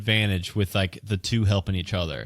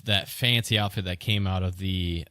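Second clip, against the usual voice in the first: ordinary delivery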